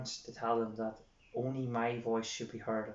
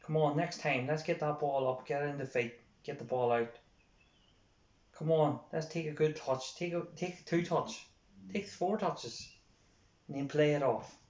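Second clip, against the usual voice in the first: mock sideline encouragement, lifting in pitch; encouraging; 2 semitones higher than usual. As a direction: lively coach urging a player on. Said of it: "Whereas if you encourage them".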